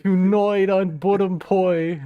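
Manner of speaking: loud, slow trailer-announcer boom; mock announcer. Streamer reading chat's line aloud as a loud, slow trailer announcer. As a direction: read it like a movie trailer. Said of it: "He fucking said".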